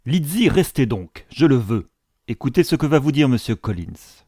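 insistent mother. Acted. Mother orders daughter to stay.

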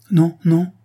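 alarmed, pulling back; frightened refusal. A narrator's reading. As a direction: recoil from him in fright. Frightened girl refuses to enter.

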